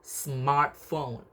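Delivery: "smartphone" with the stress on smart. Shown as a demonstration. Lecturer showing the stress pattern of a compound, stress on "smart" in "smartphone". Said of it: "the stress on the word smart".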